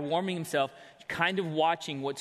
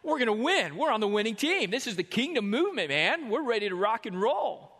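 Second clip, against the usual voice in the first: cocky disciples; 5 semitones higher than usual. Acted. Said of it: "they look at him and they go".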